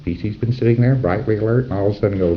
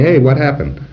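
Hey, what happened, louder and higher with a bright Hey; lively casual; 5 semitones higher, 4 dB louder than usual. Shown as a demonstration. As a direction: toss it off with friendly curiosity. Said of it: "You say".

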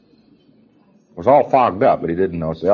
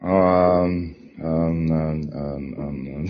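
fumbling preclear; 5 semitones lower, 4 dB quieter, much slower than usual. Retold or imitated.

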